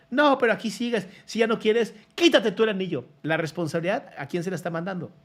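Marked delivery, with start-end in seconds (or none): 0.1-3.1 mock retort. Acted quarrel, a reply.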